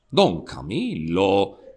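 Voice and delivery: Christ, calmed, speaks gently to the priest; serene. Acted. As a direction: soothe him, now at peace. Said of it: "il Cristo rasserenato".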